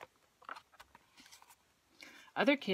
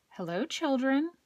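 sweet voice; 6 semitones higher, 3 dB louder than usual. A narrator's reading. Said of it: "someone said in a sweet voice".

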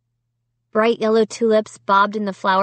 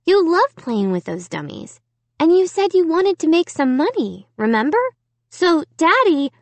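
protesting; 8 semitones higher than usual. A narrator's reading. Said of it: "Margot protested".

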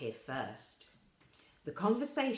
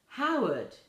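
loud call across the room; 9 semitones higher, 8 dB louder than usual. Acted. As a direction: call his name to get his attention. Lady Evelyn calls out.

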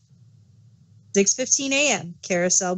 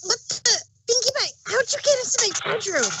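startled; 14 semitones higher, faster than usual. Acted. Rainbow Dash woken by surprise.

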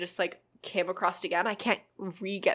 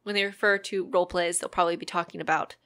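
whispering; 3 semitones lower than usual. Shown as a demonstration. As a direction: hush it like ASMR. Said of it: "move over to A S, Zumi A S M R".

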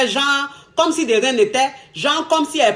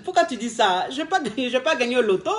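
laughing denial. Shown as a demonstration. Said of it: "Tu vas lui dire".

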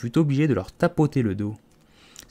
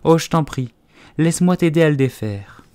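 high, loud offer of help; keen, raised girl voice; eager pleading; 6 semitones higher, 6 dB louder than usual. A narrator's reading. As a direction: beg to be allowed to help.

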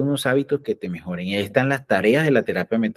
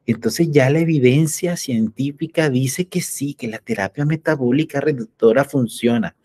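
higher, slow mock-doctor voice; 3 semitones higher than usual. Doctors finally accept the therapy, mocked in a higher voice. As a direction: play a convinced doctor, a bit smug. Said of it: "los médicos van a decir".

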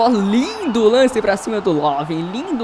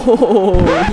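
excited laugh; 3 semitones lower, 7 dB louder than usual. Real, not acted. Laugh after goal.

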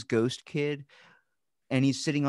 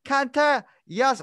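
put-on much higher, loud eerie child voice; ghost boy voice; 6 dB louder, slower than usual. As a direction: imitate the creepy little ghost boy. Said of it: "this little Chinese boy just comes out and goes".

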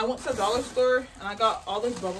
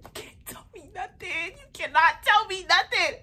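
proud boast; 10 semitones higher, 6 dB louder than usual. Real, not acted. Proud boast over her palette.

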